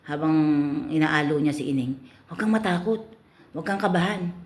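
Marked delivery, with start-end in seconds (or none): 2.3-4.3 soothing customer. Acted.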